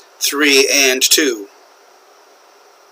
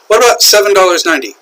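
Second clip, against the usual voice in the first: questioning wrong reading; 6 semitones higher, 3 dB louder, much faster than usual. Shown as a demonstration. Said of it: "No, that is not correct".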